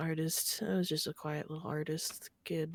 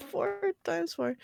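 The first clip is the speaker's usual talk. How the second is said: high, slow mock classroom answer; projected pupil answer; 13 semitones higher, slower than usual. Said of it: "he just projected really loudly".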